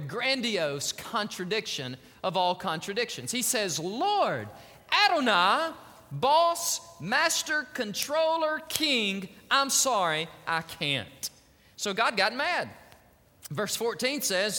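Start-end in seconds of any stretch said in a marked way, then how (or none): 3.8-11.3 acted apologetic refusal. Moses addressing God as master while refusing, acted apology. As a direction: pile up the honours, then drop away into refusal.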